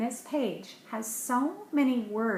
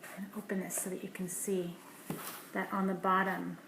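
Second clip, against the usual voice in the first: quick unvoiced whisper; fast whisper; 2 semitones lower, 6 dB quieter, faster than usual. Real, not acted. Parent opening a fold-out page for a child, fast whisper. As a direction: rush it out in a hush.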